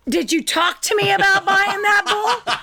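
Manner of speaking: high, whiny mock outrage; hammed-up accusing question with a laugh; mock indignant sister. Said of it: "and then she's like".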